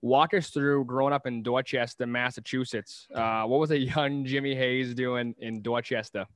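put-on a light Boston accent, dropped r's in Dorchester; host slipping into his Boston accent for the guest. Host asking about Dorchester in a light Boston accent. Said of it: "I'm gonna do my Boston accent here".

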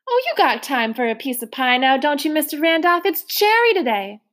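lightly voiced motherly woman, rising coaxingly; a hint of a hearty foster mother; coaxing landlady. Trotter coaxing Mister Randolph to have pie, lightly coaxing.

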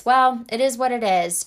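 flat shrug of "Well, it is what it is"; mock resigned sigh of a phrase. Shown as a demonstration. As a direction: give up on it aloud. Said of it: "accepting that default response".

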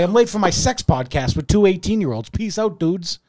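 hammed-up Boston bro sign-off; dude bro. Podcaster parodying a bro celebrity's comment, mock dude bro. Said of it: "that's pretty much him in a nutshell".

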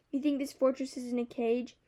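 mild sharp retort; a touch of a defiant comeback; understated indignant reply. Acted. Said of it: "I retorted".

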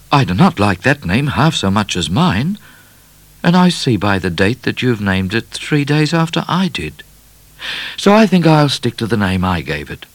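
put-on stubborn boy. A narrator's reading. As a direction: stand your ground like a young boy.

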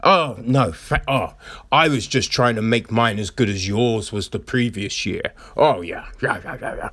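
lightly voiced, fast, self-congratulating; smug celebrities. Celebrities praising each other's charity videos, lightly mocked. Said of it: "I'm sure they're patting themselves on the back".

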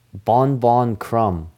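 slow, spaced-out name announcement; announcer imitation. Host showing co-host how Krum is announced, slow announcement. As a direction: draw each word out like an introduction. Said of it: "That's how they announce him".

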